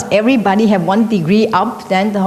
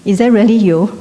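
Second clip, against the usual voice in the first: disbelieving husband; 5 dB louder than usual. Retold or imitated. Husband calls back in disbelief.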